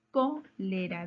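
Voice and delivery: "Cólera" split after a stressed "Có"; stressed syllable shown. Shown as a demonstration. Teacher quizzing pupils on the strongest syllable, stress on first syllable. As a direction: lean on "Có" in "Cólera", then finish the word. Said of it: "¿Dónde lleva la mayor fuerza de voz?".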